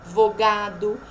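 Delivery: ADVOGADO broken after A and D; separate syllables. Shown as a demonstration. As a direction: pause between the D and the V in ADVOGADO. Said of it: "sílabas diferentes". (ADVOGADO separando o D do V)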